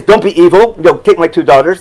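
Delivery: mock offer dripping with sarcasm; a lightly sarcastic, tongue-in-cheek plea. Lot to the Sodom mob, mildly sarcastic. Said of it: "saying it sarcastically".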